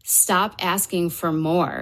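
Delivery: slow, spaced-out command; measured pronouncement, unhurried; solemn message. Retold or imitated. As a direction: deliver each word slowly and deliberately. Retells the divine message, slowly.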